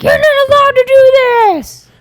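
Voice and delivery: high, drawn-out mock yell; stretched-out, high-pitched yelling impression; imitated yell. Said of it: "a guy yells at him".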